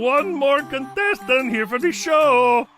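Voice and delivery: calling out. Acted. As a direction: call it over to him. Calling across to the host.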